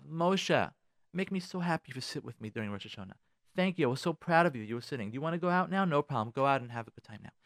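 soft, tender encouragement; loving parent. Acted. Parent thanking child for sitting with them, soft and loving. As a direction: speak softly to the child with love. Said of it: "Speak to them with love".

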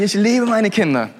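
chuckling, honest-now take on "liebe"; laughing admission. Shown as a demonstration. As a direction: laugh while confessing you love your kids. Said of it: "aber, aber ganz ehrlich".

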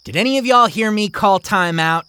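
put-on high, challenging girl; girl's voice. Mary asking the other kids, high and challenging. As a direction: put him on trial before the kids.

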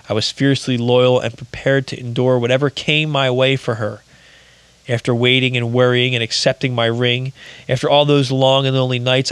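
book reading. Acted. Reads from his book.

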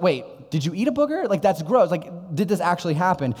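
put-on half-amused disbelief at his child; incredulous dad. Dad asking daughter about booger.

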